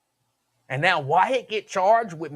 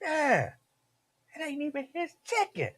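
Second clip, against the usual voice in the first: hyped up; 9 semitones higher, 6 dB quieter than usual. Retold or imitated.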